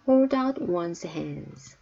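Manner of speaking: very slow, each word drawn out; slow teacher demo; slow model reading. Shown as a demonstration. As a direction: spell it out slowly for learners. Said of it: "teacher models phrase slowly".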